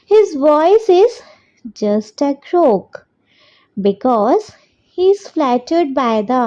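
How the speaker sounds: very slow, word by word for copying down; slow dictation. Shown as a demonstration. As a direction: dictate it so children can write along. Dictating answer twice.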